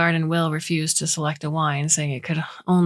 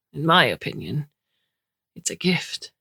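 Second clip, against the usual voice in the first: put-on hushed faint Romanian accent. A narrator's reading. Guest calling the plague a gift, faint Romanian accent. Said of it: "faint Romanian accent".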